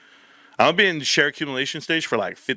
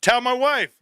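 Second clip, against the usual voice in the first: eager; 10 semitones higher than usual. Retold or imitated. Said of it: "everybody was like".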